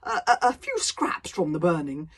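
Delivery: a giant savouring every word of his philosophy; pompous dragon philosopher. Acted. Dragon lecturing Hiccup on life, loud and grandiose.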